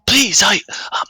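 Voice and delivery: high, whispery careful plea; hushed stranger. Acted. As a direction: half-whisper a high, hesitant warning. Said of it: "unfamiliar voice of the stranger go".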